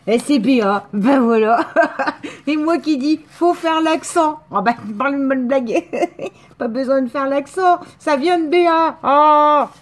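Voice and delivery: loud, high, bursting with laughter; excited laughing realisation. Real, not acted. Card recipient discovering the sender was BA, loud laughing excitement. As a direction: laugh out loud as the penny drops.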